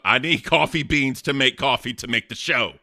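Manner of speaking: normal talking voice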